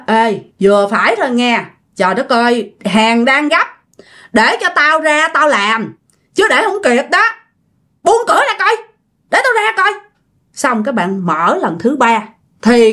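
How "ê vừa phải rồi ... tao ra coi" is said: annoyed plea climbing to a high-pitched demand; mock-angry demand to be let out; acted irritation. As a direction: start firm, then push higher in exasperation. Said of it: "bạn mới tức quá".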